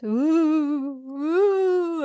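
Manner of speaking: loud, high ghostly "ooh"; playful ghost wail. Pretend. Yoga teacher playing ghost in a stretch, ghostly wail. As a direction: wail it out long like a pretend ghost. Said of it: "thinking like a ghost".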